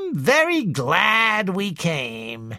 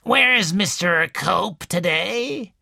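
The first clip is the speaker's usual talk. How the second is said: angrily; 5 semitones higher, slower than usual. A narrator's reading. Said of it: "she said angrily".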